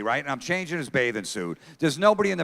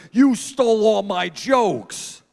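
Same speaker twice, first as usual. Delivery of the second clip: loud, high, drawn-out mock wail; crying kid; 7 semitones higher, 5 dB louder, much slower than usual. Son in the back room blaming his dad, mock crying. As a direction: imitate a child's tearful accusation. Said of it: "and he's crying".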